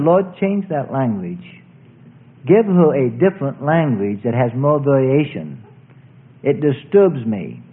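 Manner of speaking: unhurried petition in a preacher's voice; retold prayer. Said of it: "I began to pray".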